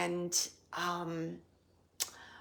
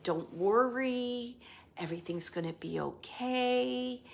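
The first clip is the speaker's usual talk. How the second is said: loving tenderness; 3 semitones higher than usual. Retold or imitated. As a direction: soothe her like a tender husband. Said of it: "that loving, um, uh, tenderness".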